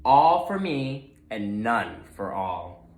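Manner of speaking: lightly voiced greedy pig, boastful. Gruntley boasts at the starting line, gloating. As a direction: gloat about being first.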